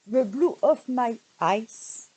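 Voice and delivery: slow, careful English accent, lightly put on; self-mocking English accent. Real, not acted. Vlogger reading an English page name, in a careful English accent. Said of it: "Moi et mon accent anglais".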